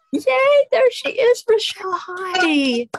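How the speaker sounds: high, delighted greeting; happy high-pitched hello; excited welcome. Real, not acted. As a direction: cheer the guest's arrival, pitched high. Greeting a guest who just appeared.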